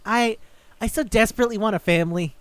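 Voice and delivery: high, hurried mock pleading; hammed-up yearning; desperate plea. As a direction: imitate a needy, lonely demon begging. Lonely demon pleads for grandson.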